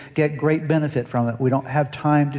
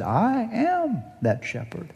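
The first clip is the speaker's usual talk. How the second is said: higher, slow, declaring; solemn voice of Jesus; 9 semitones higher, slower than usual. Acted. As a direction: proclaim it slowly, lifting the voice. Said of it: "Jesus said".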